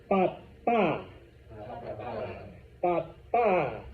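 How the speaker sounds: "Papa" said pa-PA, second syllable long; stress on final A. Shown as a demonstration. Teacher has class repeat, "Papa" stressed pa-PA. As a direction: push the last A of "Papa". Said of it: "means extra stress".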